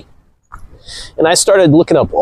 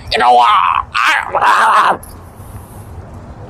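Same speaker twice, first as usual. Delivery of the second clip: retold shout; 7 semitones higher, much slower than usual. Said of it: "I shout so loud".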